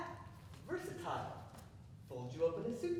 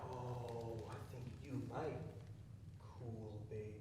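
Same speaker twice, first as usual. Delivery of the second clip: drowsy; 9 semitones lower, 10 dB quieter than usual. Acted. Drugged, drowsy.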